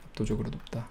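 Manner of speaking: soft, muttered repeat of 압도적으로 높다; hushed afterthought; quiet echo. Shown as a demonstration. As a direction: let 압도적으로 높다 fall away, almost to himself. Quiet repeat of own statement.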